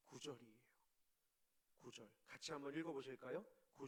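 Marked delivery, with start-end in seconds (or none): 0.1-2.1 hushed whispered aside. Real, not acted. Preacher whispering the verse number to listeners.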